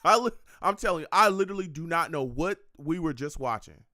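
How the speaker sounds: loud, laughing disbelief; laughing bewilderment. Real, not acted. Streamer still stunned by the clip, loud laughing confusion. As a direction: laugh it off, baffled. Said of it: "I don't know what that was".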